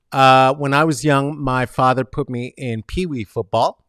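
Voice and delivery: ordinary delivery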